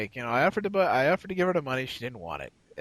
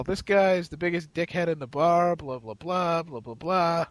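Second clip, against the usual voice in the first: mock yell; 4 semitones higher than usual. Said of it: "she would yell".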